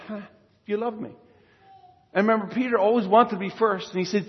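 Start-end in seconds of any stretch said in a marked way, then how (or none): 0.1-1.1 gently. Retold or imitated. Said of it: "He just gently says".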